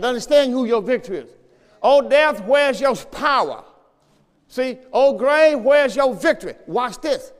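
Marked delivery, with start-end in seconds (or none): 1.8-6.5 louder ringing scripture cry; preached proclamation. Acted. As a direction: call out to death in triumph.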